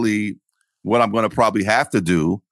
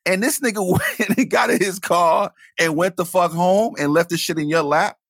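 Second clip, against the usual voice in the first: mock outrage; 9 semitones higher than usual. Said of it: "I said".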